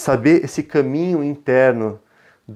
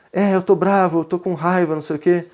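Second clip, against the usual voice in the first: higher-pitched, lightly acted child's grumble; imitating angry young son; 5 semitones higher than usual. Son admitting anger to parent, lightly mimicked crossness. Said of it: "Na verdade, ele falou".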